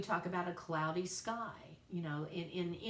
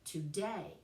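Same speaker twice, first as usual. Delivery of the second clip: toDAY, weight on the last syllable; iambic stress. Shown as a demonstration. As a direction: lean on DAY in "today". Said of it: "stress is on the last syllable".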